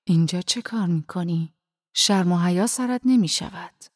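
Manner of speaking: loud, harsh rebuke; a man caught someone in the mosque, snapping at him angrily; angry scolding. Acted. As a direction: scold him like a furious worshipper.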